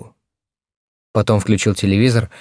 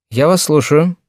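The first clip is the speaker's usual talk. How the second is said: put-on higher, brighter girl's voice; young girl voice; 7 semitones higher, 4 dB louder than usual. A narrator's reading. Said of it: "сказала Нина молодым голосом".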